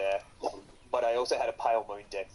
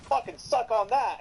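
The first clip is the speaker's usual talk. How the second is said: higher, smug mock taunt; cocky gloating; 11 semitones higher, 3 dB louder than usual. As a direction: crow over the opponent, full of yourself. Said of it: "I'm like".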